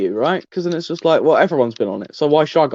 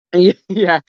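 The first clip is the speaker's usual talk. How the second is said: cracking voice, louder; 4 semitones higher, 6 dB louder than usual. Real, not acted. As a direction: voice cracking upward on yeah. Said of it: "Please cut out the voice crack".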